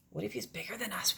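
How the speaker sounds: soft, fast frightened whisper. Acted. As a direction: whisper it, scared of the pirate. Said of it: "whispered Katie".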